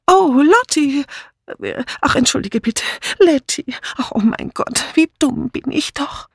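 high, flustered apology; blurted out. A narrator's reading. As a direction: burst out, dismayed at yourself, high voice. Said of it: "Dann stieß sie hervor". (bestürzt hervorgestoßen, hohe Stimme)

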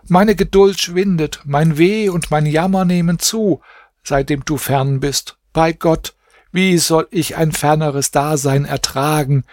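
höher, feierlich vorgetragene Klage; erhabene Klageverse. A narrator's reading. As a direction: die Verse wie ein Trauergedicht sprechen. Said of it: "Sie sprach noch folgende erhabene Verse". (feierliche, hohe Verstrauer)

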